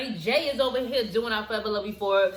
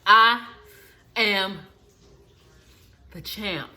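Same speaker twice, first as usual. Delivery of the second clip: triumphant boast; 4 dB louder, slower than usual. Real, not acted. Victory boast after challenge.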